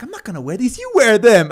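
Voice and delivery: loud, high-pitched mock protest; hammed-up indignant outburst; retold wife's refusal. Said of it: "And then she's like".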